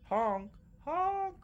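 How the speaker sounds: high goose honks in changing tones; pitched goose honks. Shown as a demonstration. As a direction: honk with a different pitch each time. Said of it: "the pitch changes the meaning".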